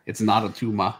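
lightly voiced Austrian action-hero quote; Arnold. Co-host quoting Kindergarten Cop, light action-hero impression. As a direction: toss in a mock Austrian accent. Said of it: "where's Kindergarten Cop when you need it?".

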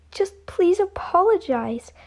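soft unvoiced plea; whispering. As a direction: whisper the request. Pleads in an unvoiced hush.

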